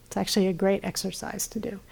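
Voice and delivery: usual speaking voice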